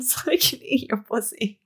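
hushed reading, breaking into laughter; whispering. Acted. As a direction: whisper the line through giggles. Reads a steamy quote aloud.

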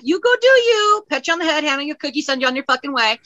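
high, mock-encouraging patter, easing down; condescending send-off. Podcaster dismissing someone starting their own coven, mock condescension.

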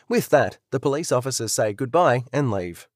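usual speaking voice

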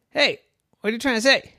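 a hint of a curious lizard; iguana voice. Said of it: "the iguana next to him said".

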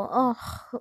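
short exasperated ugh; annoyed sigh. Retold or imitated. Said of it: "they'll go".

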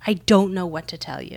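understated deadpan retelling; imitating a stone-faced mentor; poker-faced. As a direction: deliver it evenly, giving nothing away. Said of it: "like, the poker face".

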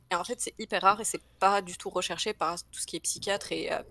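crackly bluetooth headset mic; speaking through a crackling mic. Real, not acted. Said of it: "Ton micro grésille".

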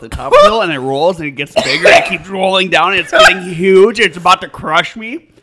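mounting, emphatic play-by-play of the burn; building alarm. Real, not acted. Describes heat building like snowball.

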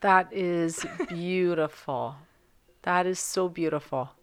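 moved, half laughing; laughing through it. Real, not acted. Moved by the poem.

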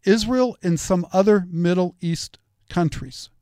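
"Israel and some other Middle East countries" said slowly and deliberately; careful slow retake of "Israel and some other Middle East countries". Shown as a demonstration. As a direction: restate it slowly so it lands. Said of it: "say that one more time".

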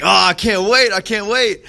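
high-pitched mock eagerness; retold excitement. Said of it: "she just is so excited".

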